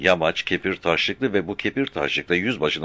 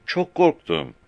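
put-on young boy answering fast; shepherd boy; 11 semitones higher, slower than usual. Frightened shepherd boy answering the captain, high child voice.

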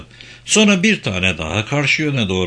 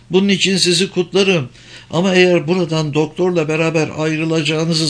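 high-pitched, emphatic woman; high, insistent female character voice; objecting German woman; 7 semitones higher than usual. Acted. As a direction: lecture them as the woman, pitched up. German woman warns the intruders.

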